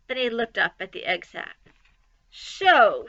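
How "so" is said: disgusted. Acted. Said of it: "he said in disgust".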